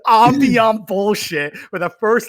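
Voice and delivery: high, laughing mockery; laughing rant. Real, not acted. Mocking rivals to friends, laughing while talking. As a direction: laugh through the complaint.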